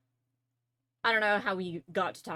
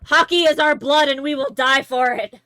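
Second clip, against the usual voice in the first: loud, higher battle cry; mock-fervent shout; 6 semitones higher, 15 dB louder than usual. Canadian answering about hockey, mock-fervent shout. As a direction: bellow it like a patriotic war cry.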